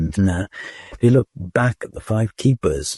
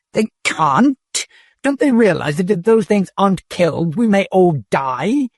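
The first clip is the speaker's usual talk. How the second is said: much higher, shrill alarm; frightened protest; 10 semitones higher than usual. A narrator's reading. Dodath panicking at the robot's refusal.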